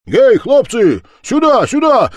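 very high, loud hail to the lads; calling out. Acted. Левко calls the lads over, shouting high. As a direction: call them over across the street. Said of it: "кричал он".

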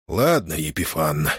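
нехотя выдавливая слова; выдави неохотно; через силу. A narrator's reading. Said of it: "выдавил он через силу". (выдавленно, через силу)

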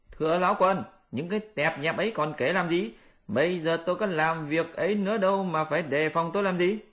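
high Monkey King, defensive; Monkey King protesting. Acted. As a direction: brush off the old accusation.

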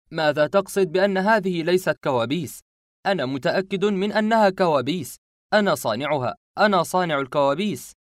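high, loud angry insistence; shouting. Acted. Boy shouts at the cornered masked man, loud and high. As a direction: shout it while cornering him. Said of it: "صرخت فيه".

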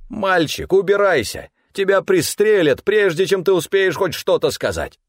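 high, loud, urgent warning; alarmed urging. A narrator's reading. Stefan tells the boy to flee before being shot, in alarm. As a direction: cry out in alarm to make him flee.

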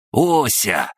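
bright, joyful call of a name; joyful announcement. Acted. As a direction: announce it with delight. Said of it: "радостно возвестил крабогном".

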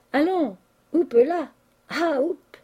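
slow, high hup calls; cried urging. A narrator's reading. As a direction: egg him on like an animal being made to jump. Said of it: "lui cria le peintre".

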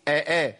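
آ، آ as two short, separate glottal catches; two full hamzas. Shown as a demonstration. Teacher modelling the correction, both hamzas distinct in آ، آ. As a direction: sound each آ with its own catch. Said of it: "يبقى أقول إيه".

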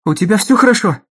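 high, loud worried question; anxious. A narrator's reading. Dagny fears for Hank, anxious high question. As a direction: ask anxiously, voice lifted.

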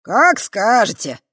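loud, slow, smirking; smirking reply. Acted. Green spirit smirking at Kava, loud and slow. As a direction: grin through the words. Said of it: "ухмыльнулась зелёная морда".

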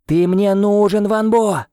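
loud, high, slow call; a drawn-out loud high call. A narrator's reading. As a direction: plead into the dark, slowly. Calling for the lost boy.

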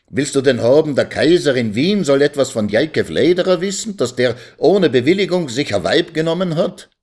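high-pitched, exasperated questioning; angry cry. A narrator's reading. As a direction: berate him with an incredulous question. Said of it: "schrie der Advokat zornig".

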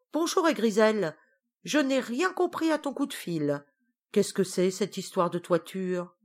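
lightly voiced queen witch, puzzled; Tatale. Witch queen asking her cousin what's wrong, lightly voiced.

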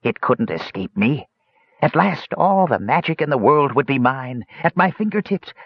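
wizened gloating rising high; shrieking old man. A narrator's reading. Old mage exulting in all the world's magic, wild. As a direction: climb into mad triumph. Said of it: "shrieked an old wizened man with a wild cackle".

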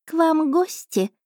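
high, slow purring cat voice; a smug little cat savouring her dinner; chatty cat familiar. Acted. Cat familiar telling princess about dinner, high slow voice.

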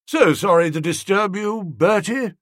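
a hint of a polite older woman; lightly voiced courteous aunt. A narrator's reading. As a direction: apologise sweetly to Bertie. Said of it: "said the aged relative courteously".

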